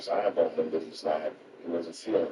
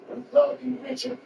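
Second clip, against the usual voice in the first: much higher calling-out cheer; fan shout. Retold or imitated. Fan jumps up shouting love to Pryor, high and ringing. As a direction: call out to him from the back row.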